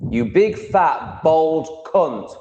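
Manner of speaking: hammed-up slow taunt at Shug; drawn-out mock insult. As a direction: stretch every word to rub it in. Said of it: "I'm only joking".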